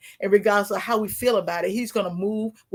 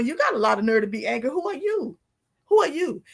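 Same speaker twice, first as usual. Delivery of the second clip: indignant God rebuking Jonah; 2 semitones higher than usual. Retold or imitated. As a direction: scold him as God would, asking who he thinks he is. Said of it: "he was telling Jonah".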